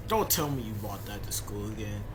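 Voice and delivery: put-on low mom voice in African American accent; scolding in an African American accent. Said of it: "I'll stop doing my black voice".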